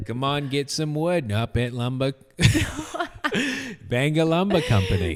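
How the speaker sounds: Maine lumber ad pitch; Maine accent. Pretend. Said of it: "in a Maine accent".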